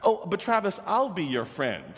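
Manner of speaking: retold excited reassurance; eager offer. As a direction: leap in with a hopeful offer. Teacher retells his eager offer.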